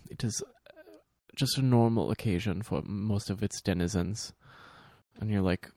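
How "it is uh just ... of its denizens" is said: German accent impression. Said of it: "That's very German".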